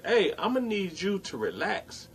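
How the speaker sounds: calm and quiet. Retold or imitated. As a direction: settle her down, quietly firm. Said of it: "I said it calm just like this".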